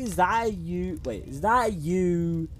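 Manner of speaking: trying out a character voice. Shown as a demonstration. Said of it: "Should I be like".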